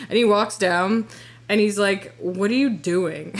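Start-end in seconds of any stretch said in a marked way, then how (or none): 2.2-3.3 slow, restrained mock anger; retold pissed-off. Imitating ex who finds her fallen, understated pissed-off. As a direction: quote an angry ex without raising your voice. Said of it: "he looks so fucking mad".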